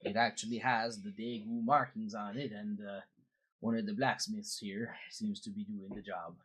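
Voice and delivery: put-on Swedish-Canadian accent; lilting Swedish-Canadian character voice; Credence. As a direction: play a folksy Swedish-Canadian boatman. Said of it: "I'm good old Swedish Canadian".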